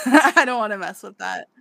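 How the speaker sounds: laughing through the line; laughing refusal. Retold or imitated. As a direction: chuckle it out, backing off. Rickard declines, laughing.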